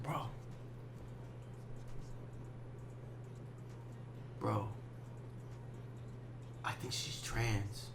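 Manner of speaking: slow, soft, low confiding; hushed reveal. Retold or imitated. Drunk homie confiding his suspicion about the girl, slow hush. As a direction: draw out the secret in a hush.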